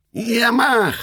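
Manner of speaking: high, eager devilish voice; squeaky impish demon. A narrator's reading. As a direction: egg him on like a gleeful demon. Devil eggs on another devil.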